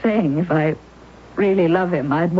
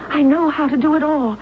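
pleading; 5 semitones higher than usual. Acted. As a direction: beg her aunt to help. Susan begs her aunt.

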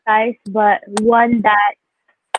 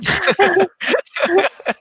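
teary laugh-sob; half laugh, half cry; shaky sigh; 10 semitones higher than usual. Real, not acted. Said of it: "trying not to cry".

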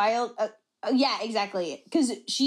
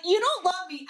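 sudden accusation; 5 semitones higher than usual. Retold or imitated. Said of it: "out of nowhere".

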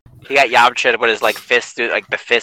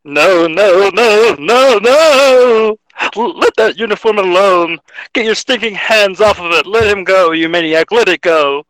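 Wally West shouting; 7 semitones higher than usual. Acted. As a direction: scream at him to let go. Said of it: "Ryan, do you want to do Wally West?".

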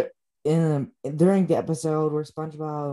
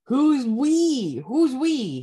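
mock confused; 9 semitones higher, 5 dB louder, much slower than usual.

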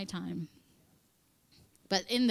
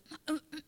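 warning throat clearing; 8 semitones higher than usual. Retold or imitated. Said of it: "And Trisha's".

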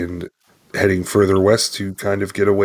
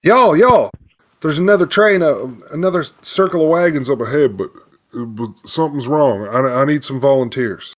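higher and louder, breathless urgent call; frenzied scout; 6 semitones higher, 4 dB louder than usual. Acted. Scout riding back to warn the wagon train, frenzied. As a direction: rush in with alarming news. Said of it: "almost frenzied at this point".

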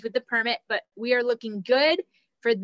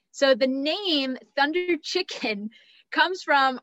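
laughing; 4 semitones higher, slower than usual. Real, not acted. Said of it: "I can't say that name without laughing".

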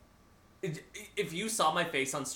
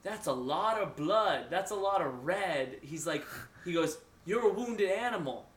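menacing killer; 3 semitones higher than usual. Retold or imitated. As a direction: draw it out, mildly imitating a backwoods killer. Acting out the killer addressing victim.

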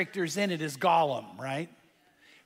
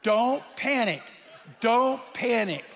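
calm reassurance; 2 semitones higher than usual. Retold or imitated. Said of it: "And the guy says".

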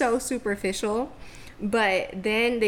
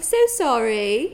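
fake British accent; 5 dB louder, slower than usual. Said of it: "in my fake British accent".

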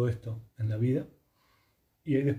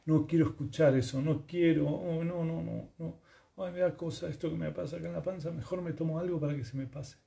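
high, soft, fretful acted voice; small high voice, mock reluctance; uneasy avoidance; 4 semitones higher, 4 dB quieter than usual. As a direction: act out not wanting to hear it. Acts out someone avoiding body sensations.

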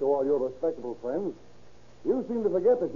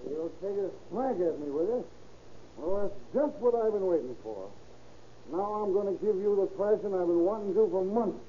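higher, taunting threat; menacing threat; 4 semitones higher than usual. Acted. Drunk husband taunts the lodger before a beating, menacing. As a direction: taunt him before the fight.

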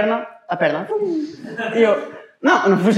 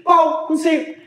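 laughing mock answer; 7 semitones higher, much slower than usual. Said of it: "Eu assim".

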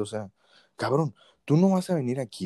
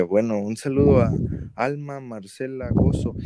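slow innocent reading; 5 dB louder than usual. Retold or imitated.

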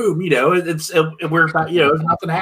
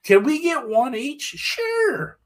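quoted bartender; 14 semitones higher, much slower than usual. Retold or imitated. Quoted exchange, high pitch.

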